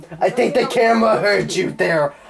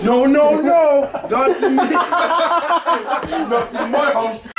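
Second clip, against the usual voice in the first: shouting no; 10 semitones higher, slower than usual. Real, not acted. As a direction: yell it, pushing the camera away. Kid yelling at the camera.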